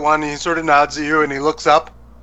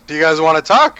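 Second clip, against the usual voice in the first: jovial boss; 3 semitones higher, 4 dB louder than usual. Acted. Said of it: "He's like".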